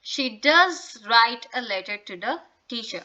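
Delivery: does pressed firmly before write; stress on does. Shown as a demonstration. Teacher showing emphatic does to students. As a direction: lean on does to insist it's true. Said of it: "when we have to put the emphasis".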